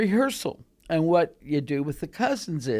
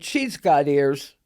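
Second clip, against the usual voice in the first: slow pronouncement; 3 semitones lower, slower than usual. Retold or imitated. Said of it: "Pointed at me and said".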